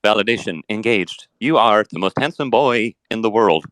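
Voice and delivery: a robot's flat, even compliment; a chatbot praising the man who built it. Acted. A chatbot flattering its maker in a robot voice.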